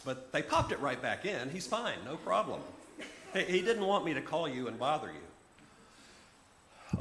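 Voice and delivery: lightly voiced sister stammering through explanations; hint of a rattled woman minimizing bad news; flustered Liz.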